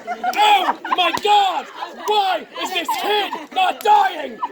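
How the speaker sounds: slow, high, word-by-word exclamation; hammed-up amazement, each word stretched; exasperated disbelief. Storyteller to the kid who won't die, mock exasperation. Mock outrage at volunteer still standing.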